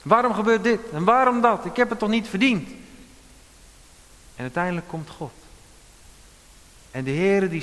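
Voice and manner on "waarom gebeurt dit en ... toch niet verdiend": louder, higher pleading protest; calling to account. Retold or imitated. Preacher voicing Job calling God to account, loud protest. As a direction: demand an answer from God. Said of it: "roepen tot verantwoording".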